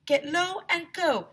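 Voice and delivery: high, loud, slow chant; shouting. A narrator's reading. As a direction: yell the rule. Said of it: "shouted Ryan".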